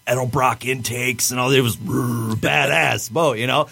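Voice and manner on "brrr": imitated speedboat engine rumble; rolled "brrr" engine sound; motor noise. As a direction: make a revving motor noise with the lips.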